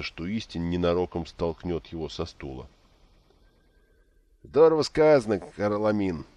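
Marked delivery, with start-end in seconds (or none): 4.4-6.2 put-on a gurgling drunk voice, much higher and louder. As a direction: burble it out like a drunk. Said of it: "пробулькал Истин".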